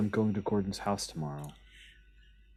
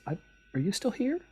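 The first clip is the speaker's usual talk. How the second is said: haughty surprise; faster than usual. Acted. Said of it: "Felicia says".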